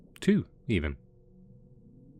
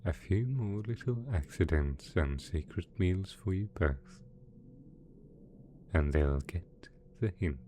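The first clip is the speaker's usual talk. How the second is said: gentle coaxing; 2 semitones lower than usual. Acted. Villain coaxing two pet dragons to eat, gently soothing.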